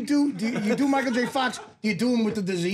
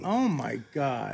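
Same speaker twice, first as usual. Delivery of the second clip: mock trailer voice; 7 semitones lower, much slower than usual. Host reacts mock trailer.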